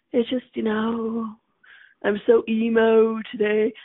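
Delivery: slowed-down, put-on gloom; mock emo moping. Acting out being so emo today, mock mopey. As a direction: wallow a little, half-joking. Acts out someone feeling emo.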